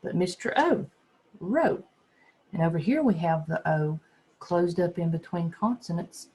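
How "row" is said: "row" with a long, raised O; long O shouted. Shown as a demonstration. Teacher voicing Mister O shouting his name, raised pitch. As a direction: let the O in "row" call its own name. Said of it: "shouting out his name".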